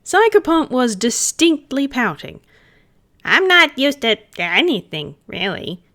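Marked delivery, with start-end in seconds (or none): 3.2-5.8 grumbling. Acted. Pouting spirit grumbling to Gil, pouty grumble. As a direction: grumble it with a pout. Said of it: "he grumbled".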